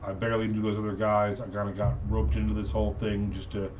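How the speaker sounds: a bit low and subdued, conciliatory; be as nice as you can, mildly pleading; placating, trying to be nice. Acted. Captured muscle guy explaining himself to Lambert, placating. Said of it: "trying to be as nice as he can be now".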